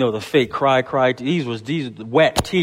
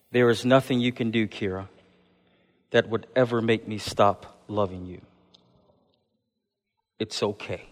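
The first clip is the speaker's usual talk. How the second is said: hushed, loving reassurance; tender reassurance, soft and slow; 5 semitones lower, 8 dB quieter than usual. Retold or imitated. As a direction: quietly comfort a crying cousin. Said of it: "Kaylee responded to Kira".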